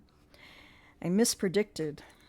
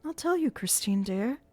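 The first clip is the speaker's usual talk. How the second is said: high, rising panic about the burning wall; frightened Christine; 9 semitones higher, 3 dB louder than usual. Acted. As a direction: cry out in alarm. Christine alarmed.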